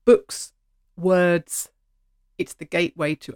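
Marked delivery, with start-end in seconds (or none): 0.1-1.7 a burst of real enthusiasm, louder; animated burst. Real, not acted. Host gushing to listeners about books, loud and excited. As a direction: blurt it out, thrilled by books. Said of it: "I get so animated".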